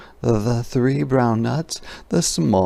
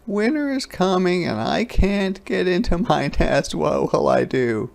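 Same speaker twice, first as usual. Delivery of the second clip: a lightly higher fretful little voice; lightly raised worried hedgehog; 8 semitones higher than usual. A narrator's reading. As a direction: fret like a small animal. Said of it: "wailed Hedgehog".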